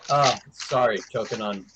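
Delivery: talking through chips; coughing on chips, mouth full. Real, not acted. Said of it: "choking on potato chips here".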